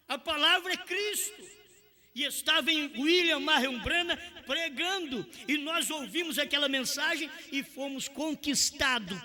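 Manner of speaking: high, forceful preaching voice; pregação inflamada. Acted. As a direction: preach it high and insistent, driving each point home. Prega com toda a força. (pregação inflamada em tom alto)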